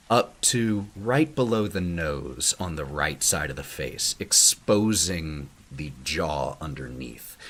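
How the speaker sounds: slow, suspenseful description with long pauses; game master's narration. Acted. Game master describes a menacing stranger, suspenseful narration. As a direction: unveil the figure piece by piece, lingering on key words.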